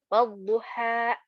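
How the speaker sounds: wadduha slow, stopped abruptly on the last a; cut-off ending. Shown as a demonstration. Teacher demonstrating the cut-off mistake on wadduha. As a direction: slowly stop short at the end of wadduha. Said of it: "kita cut".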